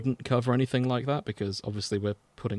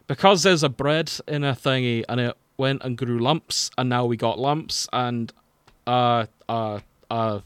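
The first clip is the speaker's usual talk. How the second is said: drunken Scotsman blubbering through his words, a hammed-up sob; mock crying; 4 dB louder than usual. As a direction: sob it out like a drunk mess, half joking. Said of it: "That's crying".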